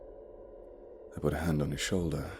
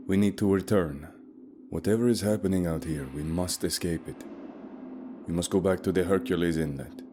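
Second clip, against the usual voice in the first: a hint of a firm, calm guide; steady him, keep it level; 2 semitones higher, 3 dB louder than usual. Guide Leif telling the group Katie is dead, lightly voiced calm. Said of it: "Leif was somehow remaining calm".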